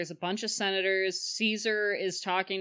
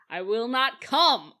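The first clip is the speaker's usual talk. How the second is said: slow, louder mock refusal; loud, stubborn; 3 semitones higher, 5 dB louder than usual. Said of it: "Caesar says very s-, loudly, very stubbornly".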